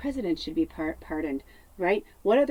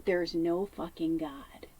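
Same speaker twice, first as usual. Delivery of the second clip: retold scream; 2 semitones lower, 7 dB quieter, slower than usual. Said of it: "started to scream and yell".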